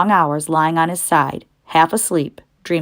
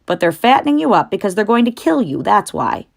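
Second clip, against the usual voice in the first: put-on knowing old ewe, higher; old sheep voice; 4 semitones higher than usual. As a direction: warn him like a wise old sheep. Old sheep reveals the plan.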